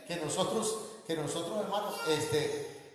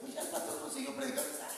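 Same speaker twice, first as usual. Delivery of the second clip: mocking churchgoer; 4 dB quieter, much faster than usual. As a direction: toss it off like a scornful member leaving. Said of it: "A lo mejor te diga".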